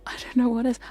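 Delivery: same words as a sharp whisper. Shown as a demonstration. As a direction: repeat "I don't know what is." as a whisper. Repeat, second take whispered.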